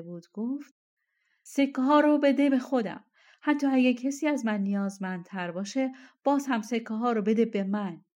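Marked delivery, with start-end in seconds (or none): 1.4-8.0 eager demand. Acted. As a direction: jump in to claim the reward. Jumps up to claim reward. (درخواست بلند و مشتاقانه)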